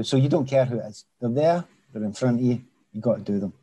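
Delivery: slight Glaswegian accent creeping in. Real, not acted. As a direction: let a hint of Glasgow accent through. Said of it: "my Glaswegian accent's coming back".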